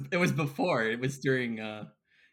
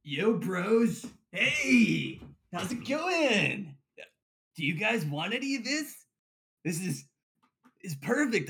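frat bro. Acted. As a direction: play a laid-back frat bro. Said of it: "you know, a werebro".

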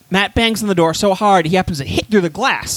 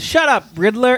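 raised-pitch character retort; Bane; 6 semitones higher than usual. Acted. Bane turning on the Riddler, in a raised character voice. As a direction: cut him off in a higher put-on voice. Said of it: "Bane turns around and goes".

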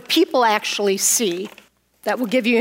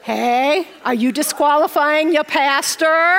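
laughing rebuke; 3 semitones higher, slower than usual. Real, not acted.

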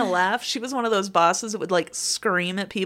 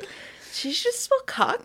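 laughing mock quote; 4 dB quieter than usual. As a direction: giggle out her baffled question.

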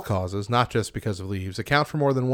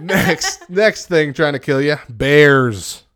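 announcer; 2 semitones higher, 9 dB louder, much slower than usual. Acted. Announcing next danger.

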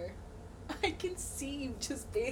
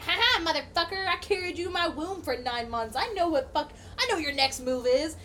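retold gloating; 3 semitones higher, 4 dB louder than usual. Retold gloating at caught cat.

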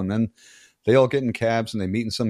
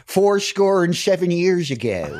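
high, loud, slow Philly oration; exaggerated Philly accent; 9 semitones higher, 5 dB louder, slower than usual. Shown as a demonstration. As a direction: declaim it in a thick Philly accent. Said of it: "if I had a Philly accent".

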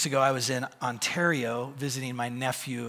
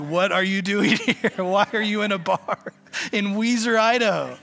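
high, loud disbelieving shout; the whole bar asks in astonishment; incredulous loud question; 6 semitones higher, 8 dB louder than usual. Retold or imitated. Everyone asking why he's there.

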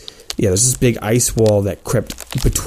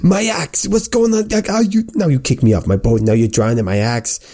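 Johnny voice; 3 semitones higher than usual. Retold or imitated. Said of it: "he's like".

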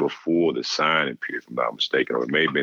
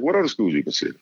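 high-pitched mock coach voice, friendly; imitating the coach; 11 semitones higher, faster than usual. Coach phoning a recruit late at night, high mock coach voice. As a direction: put on a much higher voice to play the coach calling late. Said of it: "he said".

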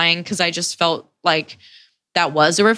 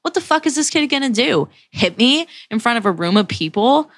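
retold screaming back; 4 semitones higher than usual. Girl screaming back at him, retold as a mild mock yell. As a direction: retell an incredulous outburst without shouting. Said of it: "I'm screaming back at him".

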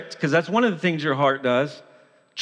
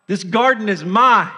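raised, forceful refusal; defiant Adam; 4 semitones higher, 5 dB louder than usual. Acted. Adam refusing God in the garden, defiant. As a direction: push back loudly, staking a claim. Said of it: "just like Adam in the garden said".

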